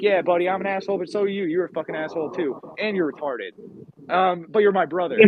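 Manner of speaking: blunt, rough and affectionate; gruff Yankee retort. Retold or imitated. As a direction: jab back, then soften. Yankee reply to insult.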